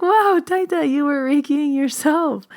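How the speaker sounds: high, loud delighted wow; retold amazement. Granddaughter reacts to grandma's self-healing, high retold amazement.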